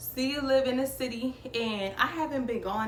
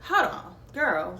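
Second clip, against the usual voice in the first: suddenly alarmed, stopping a friend mid-talk; startled hold on; 3 semitones lower, 3 dB louder, slower than usual. Retold or imitated. To her cousin about a strange message, a startled louder hold on.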